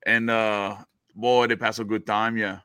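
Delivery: Cajun storyteller opening, names announced loud; lightly put-on Louisiana Cajun drawl; Louisiana Cajun accent. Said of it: "say it in your Louisian accent".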